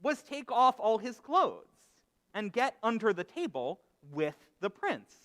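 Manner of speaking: animated storytelling with deliberate pauses; story narration. Acted. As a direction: tell it as a parable, phrase by phrase. Tells a parable within a sermon.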